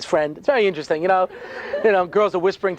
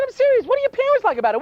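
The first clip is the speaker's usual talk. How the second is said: much higher, insistent push; urgent pressing; faster than usual. Acted. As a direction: really press them for an answer. Rabbi pressing the kids hard.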